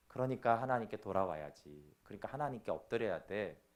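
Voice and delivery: soft, low, pleading; gentle call back. Acted. God gently calling the sinner back, soft and low. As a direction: coax them home gently. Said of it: "분명히 책망했지만".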